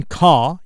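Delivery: "car" said as "cah" with the R left off; British-style "car" ending on a long open vowel; silent R. Shown as a demonstration. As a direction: drop the final R in "car". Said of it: "you don't pronounce the, the R, the R there".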